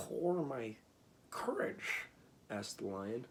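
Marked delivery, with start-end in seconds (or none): 0.1-2.0 dismayed. A narrator's reading. Lion dismayed.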